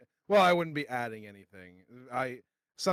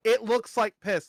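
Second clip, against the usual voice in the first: retold insult; 10 semitones higher, 5 dB louder than usual. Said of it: "and I'm like".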